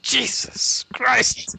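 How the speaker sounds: slow breathy whisper; hushed Jesus Christ; whispered exasperation. Real, not acted. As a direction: sigh it out in disbelief.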